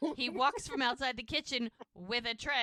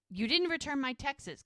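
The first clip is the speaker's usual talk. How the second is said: mild, higher-pitched mock indignation; annoyed accusation; 5 semitones higher, 4 dB louder than usual. Lizzie confronts Parker in the booth, mildly annoyed. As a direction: lightly imitate a miffed woman confronting him. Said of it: "She is not happy".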